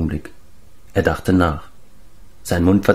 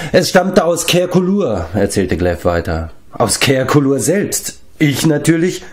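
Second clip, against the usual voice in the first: Glev, talkative giant; 6 semitones higher than usual. Acted.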